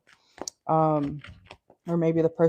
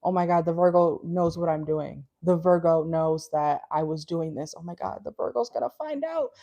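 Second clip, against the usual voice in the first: paranoid. Acted. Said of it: "might be a little bit paranoid".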